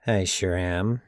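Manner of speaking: nasally, pleased with himself. Acted. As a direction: answer in a nasal voice. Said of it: "a nasally voice replied".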